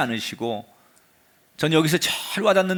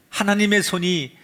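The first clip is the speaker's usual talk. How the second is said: ordinary talk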